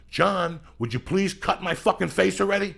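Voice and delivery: loud, high-pitched mock plea; Pacino's exasperated outburst. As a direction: imitate an actor losing patience, voice jumping up.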